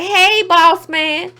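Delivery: lightly voiced flattering assistant; eager intern. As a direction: suck up to the boss, slowly. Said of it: "He look like".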